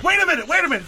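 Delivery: shocked high shriek. Acted. Sudden shocked realisation, voice shoots up.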